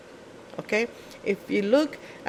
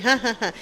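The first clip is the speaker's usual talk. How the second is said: own laugh; 4 semitones higher, faster than usual. Shown as a demonstration. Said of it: "the way she laughed, it wasn't like me".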